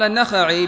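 النخعي said with the nun and kha both clearly open, a-na-kha-'i; careful pronunciation. Shown as a demonstration. Teacher reading out a name to his students, carefully pronouncing it. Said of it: "بفتح النون والخاء".

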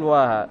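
واها without the final n, as at a pause; pausal form. Shown as a demonstration. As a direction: say واها with a long aa and stop. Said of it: "في أثناء الوقف".

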